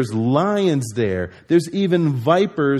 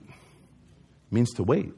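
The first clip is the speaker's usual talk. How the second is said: slowed demo; 4 semitones lower, 6 dB quieter, much slower than usual. Shown as a demonstration. Slow drawn-out demonstration.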